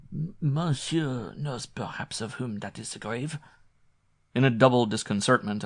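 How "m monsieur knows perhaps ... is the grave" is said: slow, higher, disapproving French villager; disapproving countryman. A narrator's reading. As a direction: ask it with sombre disapproval. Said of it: "frown of sombre disapproval".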